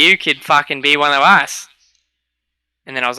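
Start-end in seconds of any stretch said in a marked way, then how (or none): 0.0-1.7 put-on Aussie accent, impressed; imitated Australian accent. Australian players accepting him as one of them, mock Australian accent. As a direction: imitate an Australian welcoming a newcomer. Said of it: "They're like".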